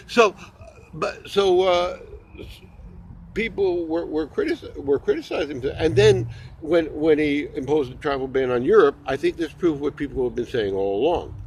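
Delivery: usual speaking voice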